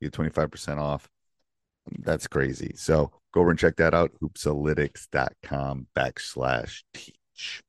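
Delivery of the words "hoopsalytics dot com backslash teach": deliberate, slow promo read; slow, careful URL read. Shown as a demonstration. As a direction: spell out the web address slowly. Repeating the discount URL.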